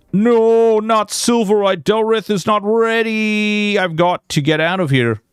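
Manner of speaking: villain panicking and fleeing; panicked villain. Acted.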